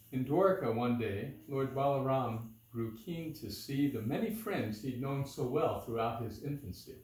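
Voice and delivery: measured storytelling in metre; verse narration. A narrator's reading. Reading Balaram's visit to listeners, measured verse narration. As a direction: read it as rhymed verse, phrase by phrase.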